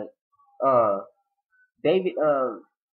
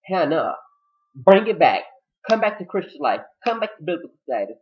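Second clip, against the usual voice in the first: loud, high call to repent; louder, higher churchy scolding; mock preaching; 3 semitones higher, 6 dB louder than usual. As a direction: preach at her to come back. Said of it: "I was like".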